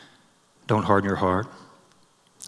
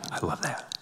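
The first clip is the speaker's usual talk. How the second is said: "I love that" breathed almost silently, ending in a lift; near whisper; 2 semitones higher, 13 dB quieter than usual. Real, not acted. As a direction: barely voice "I love that".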